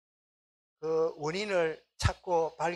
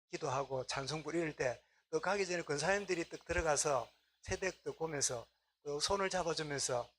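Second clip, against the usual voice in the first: ordinary delivery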